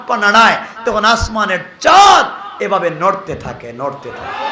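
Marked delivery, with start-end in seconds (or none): 0.9-3.7 said in full, strong voice. Acted. Preacher describing the moon's movement in a strong, full voice. Moon moving, said then echoed. 3.7-4.4 much lower and softer echoed repeat. Acted. Preacher softly echoing his own words to the crowd. Moon moving, said then echoed.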